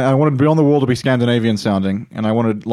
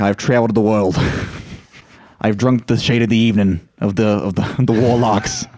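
Euron Greyjoy boast; 2 semitones lower than usual. Retold or imitated. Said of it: "Euron Greyjoy comes back".

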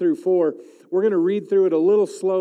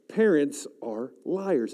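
slower, each word weighed; slow deliberate restatement; 3 semitones lower, 3 dB quieter, much slower than usual. Shown as a demonstration. Preacher repeating to the chapel, slow and weighty. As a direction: say it again slowly so it lands. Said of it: "Let me just try it one more time".

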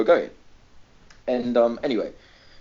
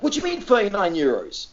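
imitated indignation, raised pitch; proper angry; 5 semitones higher than usual. Mum disputing thirty-nine euros with the driver, proper angry. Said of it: "like, proper angry".

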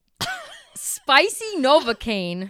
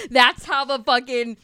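bursting out laughing; 2 semitones higher, 5 dB louder than usual. Real, not acted. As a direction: laugh through the words. Laughing fit while eating.

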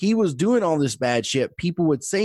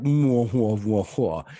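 mustache twirling villain; 3 semitones lower, slower than usual. Retold or imitated. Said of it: "it wasn't mustache".

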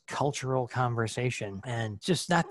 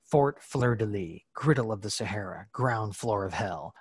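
dramatic reading. Shown as a demonstration. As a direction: read it like a grim movie trailer. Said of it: "So here we go".

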